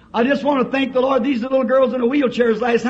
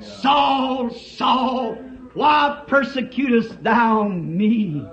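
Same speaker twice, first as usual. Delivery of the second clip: voice from heaven; slower than usual. Acted. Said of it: "supernatural voice".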